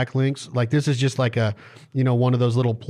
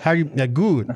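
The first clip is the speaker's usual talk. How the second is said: mock Cajun accent. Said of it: "You say that good?".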